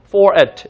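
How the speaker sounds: "for it" with a lax "eh"-like i in it; relaxed short i. Shown as a demonstration. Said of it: "for it처럼 들리는 거예요".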